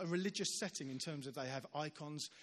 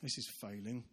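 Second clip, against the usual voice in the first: inner worry; 6 semitones lower, 5 dB quieter than usual. Retold or imitated. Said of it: "And I was thinking".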